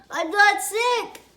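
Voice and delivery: put-on high, loud tearful child's whine; sobbing child. Girl refusing medicine, sobbing high and loud. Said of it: "she sobbed".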